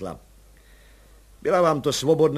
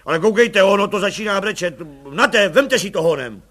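flustered alarm; 6 semitones higher, 9 dB louder than usual. A narrator's reading. Baby starts crying, commissioner panics.

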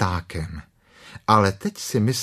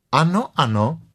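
soothingly; 6 semitones higher than usual. Acted. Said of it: "řekla klokanice konejšivě".

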